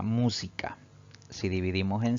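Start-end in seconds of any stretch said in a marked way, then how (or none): 0.0-0.8 MÚ of "música" given extra weight; "música" stressed at the start; antepenultimate stress. Shown as a demonstration. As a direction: lean on the first syllable of "música". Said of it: "la mayor fuerza de voz recae".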